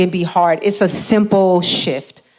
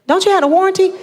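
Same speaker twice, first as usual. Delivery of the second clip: sister's question; 9 semitones higher, much faster than usual. Retold or imitated.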